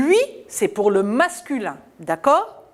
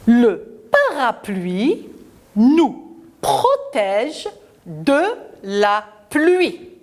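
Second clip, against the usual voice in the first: slow model reading; 2 semitones higher, slower than usual. Shown as a demonstration. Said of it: "les lire à la maison et les répéter".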